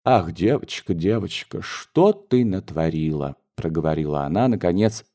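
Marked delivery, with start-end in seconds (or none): 0.0-3.3 rueful. Acted. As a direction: mourn what's done. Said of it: "качая в раздумье головой".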